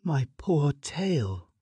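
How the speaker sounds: high, slow lament; self-pitying lament. A narrator's reading. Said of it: "she thought".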